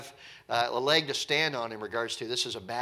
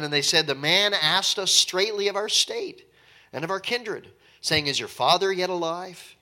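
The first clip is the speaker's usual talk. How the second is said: raised, formal reading of the verse; scripture reading; 4 dB louder than usual. Acted. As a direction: read the verse out with weight.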